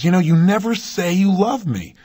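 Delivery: a touch of upset in the retelling; mild upset. Retold or imitated. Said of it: "she finally gets upset about it".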